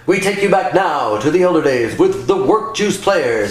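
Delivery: lightly voiced vintage radio host intro; a hint of an old-time announcer; mild mock radio announcer.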